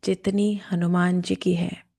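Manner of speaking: slow, measured affirmation; deliberate meditation-leader delivery; guided affirmation. Acted. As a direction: lead them in a slow, steady affirmation. Leads spoken affirmations.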